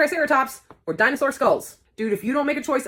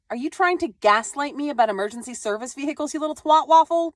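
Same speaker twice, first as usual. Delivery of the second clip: mock angry; 3 semitones higher, 3 dB louder than usual. Mock-furious parent snapping at kid.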